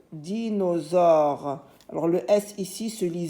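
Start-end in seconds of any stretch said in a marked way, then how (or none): 0.1-1.6 dinosaure slow, every syllable held; sounded-out word. Shown as a demonstration. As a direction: stretch "Dinosaure" evenly. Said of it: "par la première syllabe". (dinosaure lentement, syllabes allongées)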